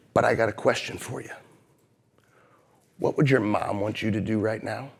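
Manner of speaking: soft, low, repeated Ben, Ben, slowing down; a lightly voiced wise boss soothing an angry young man; calm patient mentor. Mentor John's gentle question continues.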